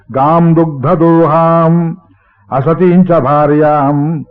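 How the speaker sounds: slow, measured chanting of a verse; slow Sanskrit verse recitation; shloka recitation. Acted. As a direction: intone each word of the verse deliberately.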